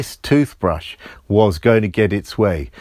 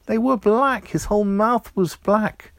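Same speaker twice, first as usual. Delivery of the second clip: high, startled repeat; shocked repeat; 9 semitones higher than usual. A narrator's reading. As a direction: gasp it out in surprise.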